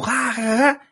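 high mock laughing; imitated crowd laughter. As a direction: laugh like the whole audience. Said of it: "Y todo". (risas del público imitadas)

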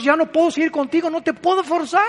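más aguda, con lamento; voz de Dios lamentándose. Acted. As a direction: Dios se rinde con tristeza. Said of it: "dice Dios". (lamento agudo de Dios)

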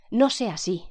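high, loud rebuke; exclaiming. A narrator's reading. Young woman scolding a man mocking the dead, high loud exclamation. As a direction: cut him off sharply in protest. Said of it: "exclamó Vera".

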